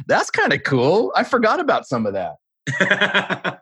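high, slow musing voice, hammed-up; mock inner thought. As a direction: act out a dreamy little thought, pitched high and drawn out. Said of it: "I'm, like, going".

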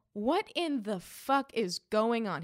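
slow, emphatic mock outrage; indignant demand, drawn out; retold outrage. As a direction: lean on each word in disbelief. Retells outraged phone call to dealer.

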